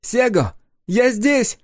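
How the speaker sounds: high, bright ringing call; clear ringing voice. A narrator's reading. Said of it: "кристально чистый и звонкий голос".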